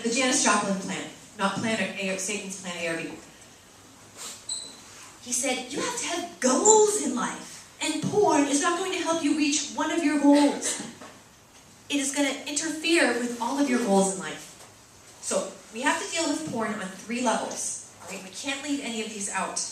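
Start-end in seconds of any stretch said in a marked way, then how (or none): 5.7-14.5 put-on British accent. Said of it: "this is my terrible British accent".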